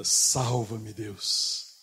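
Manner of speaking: drawn-out plea to God; mild retold cry. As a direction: call out for help, short of shouting. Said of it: "engole o orgulho e grita". (clamor contido)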